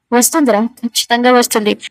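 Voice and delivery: sly, scheming certainty; lightly voiced scheming villain; cunning. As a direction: savour the plan under the breath. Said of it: "అని కన్నింగా అనుకుంటాడు".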